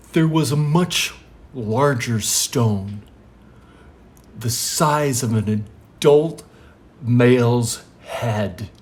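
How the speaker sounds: slow, portentous storyteller delivery; acted solemn storytelling; parable recital. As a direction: stretch key words, with long pauses. Jesus recites his draft parable.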